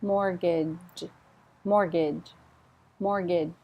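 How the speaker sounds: Mortgage ending in a light j sound; soft final J. Shown as a demonstration. Teacher modelling mortgage, soft final j. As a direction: finish Mortgage with a small j. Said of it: "I need a final J".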